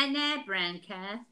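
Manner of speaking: slow, drawn-out Cockney vowels. Pretend. Answering the elocution joke in slow Cockney. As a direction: stretch it out in Cockney. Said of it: "that's Cockney talk".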